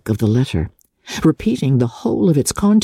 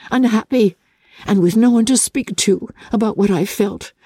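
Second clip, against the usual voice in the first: a lightly voiced lively young woman; hint of a spirited sister; Elizabeth's voice; 7 semitones higher than usual. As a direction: give Elizabeth a bit more brightness than the narration. Elizabeth confides in Jane.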